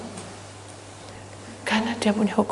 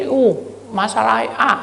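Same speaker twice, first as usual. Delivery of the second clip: usual speaking voice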